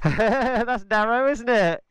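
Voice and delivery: muffled voice inside a helmet. Real, not acted. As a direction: talk from behind a fogged visor. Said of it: "My helmet's fogging up".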